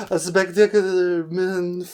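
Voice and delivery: slipping put-on French accent; playful, wobbly French accent. Shown as a demonstration. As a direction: attempt a French accent, loosely held. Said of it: "my accent, it just keeps going out and in".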